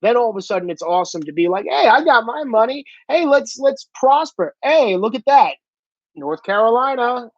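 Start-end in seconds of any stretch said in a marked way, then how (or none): 1.7-7.3 higher, breezy mocking voice; mock smug billionaire. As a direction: parody a rich man playing socialist, pitched up. Mocking rich socialist.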